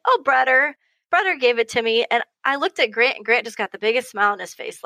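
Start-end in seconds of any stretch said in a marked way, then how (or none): 0.0-2.0 put-on slightly high, innocent child answer; a hint of a small child; lightly voiced little boy. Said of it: "And he's like".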